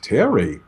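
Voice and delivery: a deliberate pause after "Terry."; name then pause. Shown as a demonstration. Negotiator lets the name hang before going on, pausing. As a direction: say "Terry." and let it hang in silence. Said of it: "did you notice how I paused there".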